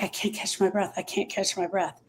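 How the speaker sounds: softly voiced inner panic, understated; low-volume acted worry, repeated to oneself; quiet distress. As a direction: say it softly, like a private anxious thought. Voices a griever struggling to breathe.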